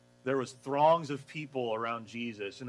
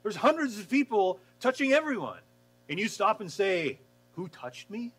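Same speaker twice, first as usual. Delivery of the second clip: incredulous disciples; 7 semitones higher, 4 dB louder than usual. Retold or imitated. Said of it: "the disciples like".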